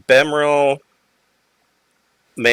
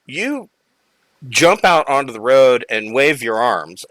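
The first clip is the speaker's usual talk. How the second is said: ordinary talk, nothing marked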